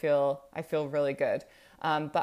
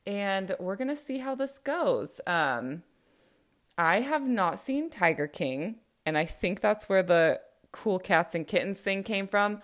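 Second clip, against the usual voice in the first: radio voice. Shown as a demonstration. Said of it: "ditch that radio voice".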